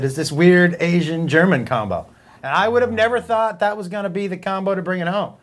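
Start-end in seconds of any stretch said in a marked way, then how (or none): 0.0-2.1 lightly voiced German-accented guy, a bit lower; a hint of a German accent, unhurried; German guy's voice. Retelling the Asian German guy's boast, light German accent. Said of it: "He said".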